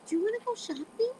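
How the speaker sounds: high, hopeful dad voice; happy. Retold or imitated. Dad, fed and won over, invites daughter out happily. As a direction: float the invitation up cheerfully.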